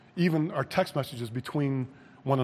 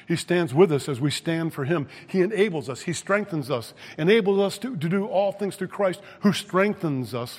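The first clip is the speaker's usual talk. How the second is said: raised, insistent preacher's voice; emphatic preaching; 4 semitones higher, 4 dB louder than usual. Acted. Preacher assures believers that Christ strengthens them, emphatic preaching. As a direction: press the assurance on the congregation.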